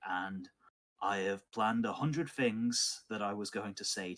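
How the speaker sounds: lightly acted villain, pitch rising on key phrases; measured confession turning to a threat, lightly played; villain's speech. Burned former lord confronts those who ruined him, understated villain. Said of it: "he, uh, says to you".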